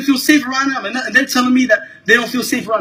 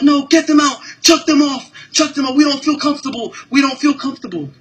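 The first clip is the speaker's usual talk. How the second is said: higher, mock-insistent chant of complaints; mocking hostile passengers; 5 semitones higher than usual. Imitating passengers demanding the men be thrown off, higher and mocking. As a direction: parrot the passengers' demands with scorn. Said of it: "they were like".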